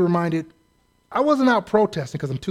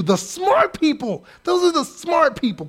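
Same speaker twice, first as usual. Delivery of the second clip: sarcastic; 10 semitones higher than usual. Real, not acted. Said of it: "quote unquote".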